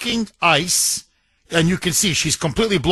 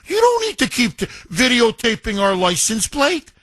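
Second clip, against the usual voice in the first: mocking; 4 semitones higher than usual. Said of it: "who's mocking him".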